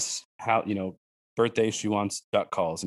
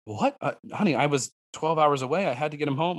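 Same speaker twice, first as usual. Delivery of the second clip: higher-pitched retold protest; incredulous dad; 5 semitones higher than usual. Dad excusing himself to his upset daughter, mock incredulous. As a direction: plead your case in mild disbelief.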